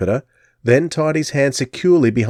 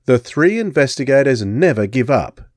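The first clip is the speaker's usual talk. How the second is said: stubbornly; 3 semitones higher than usual. Acted. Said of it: "Jupiter said stubbornly".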